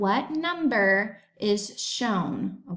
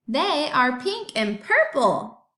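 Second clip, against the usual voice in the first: exclamation point reading; 3 semitones higher, slower than usual. Shown as a demonstration. Teacher reading the sentence with an exclamation point, excited. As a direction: read it like it ends with an exclamation point. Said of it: "or I could put an exclamation point".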